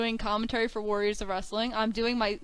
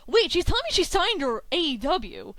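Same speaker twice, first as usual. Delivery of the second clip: louder, higher burst of disbelief; retold realisation; 6 semitones higher, 4 dB louder than usual. Student working out her mentor's news, startled disbelief. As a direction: jump up in pitch as it dawns.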